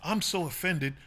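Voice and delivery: put-on scandalized gasping disbelief; imitating phony offended outrage; mock outrage. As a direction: act hugely offended, mockingly. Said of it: "this sensitivity and this artificial".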